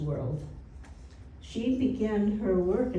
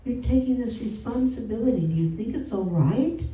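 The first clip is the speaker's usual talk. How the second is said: put-on worried old woman; 5 semitones higher than usual. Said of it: "She goes".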